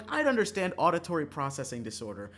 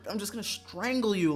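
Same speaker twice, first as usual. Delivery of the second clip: building shout; 9 semitones higher, 11 dB louder than usual. Real, not acted. Yelling at an imagined pessimistic housemate, building to a loud high scream. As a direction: shut up rising from firm to a high, very loud scream.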